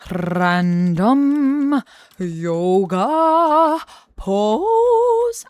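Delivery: loud, very slow fanfare, leaping high on the last word; drawn-out announcement. Pretend. Streamer announcing a random yoga pose to chat, drawn-out announcement. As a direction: stretch each word like a game-show reveal. Playful announcing of the generator result.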